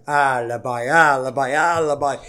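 light mock Italian accent, insistent repeats; a hammed-up fake Italian accent for a manager's excuses. Podcaster mimics a manager at a press conference, mock Italian accent. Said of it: "I'm putting on the fake accent".

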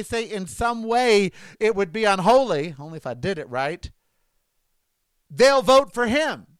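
fed-up political rant; mad, exasperated. Real, not acted. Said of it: "I was getting too mad".

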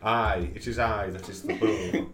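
pirate voice. Acted. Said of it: "she's getting into the nautical theme".

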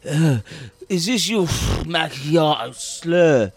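slow slurred barista voice; slurring voice. Shown as a demonstration. Barista slurring a coffee order, slow and slurred. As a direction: slur the order like you're drunk. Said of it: "one of them is when I slur".

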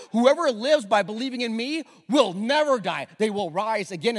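loud, high declaration; preaching Jesus' words. Acted. Preacher booming Jesus' promise to the congregation, loud and high. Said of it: "Listen to this next statement".

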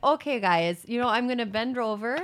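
lightly put-on Midwest accent; Wisconsin accent. Shown as a demonstration. Voicing the Wisconsin senator addressing the party, Wisconsin accent. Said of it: "like, a weird accent".

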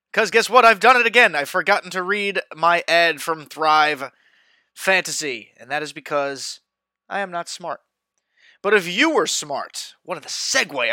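podcast sponsor read; upbeat sponsor plug. Acted.

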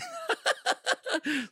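real high, giggly laugh. Real, not acted. Comedian amused by his cousin impression, high laugh. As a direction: break into a high cackle.

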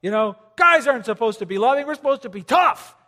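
loud, scoffing macho guy; mock the guys who balk at love; hammed-up tough guy scoffing at love. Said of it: "They're like".

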